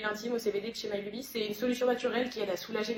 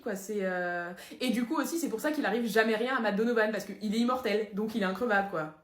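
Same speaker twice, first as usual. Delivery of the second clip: ordinary talk, nothing marked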